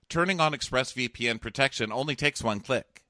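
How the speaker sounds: scripted, persuasive sponsor read; podcast ad read. Real, not acted. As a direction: sell it with evenly stressed copy.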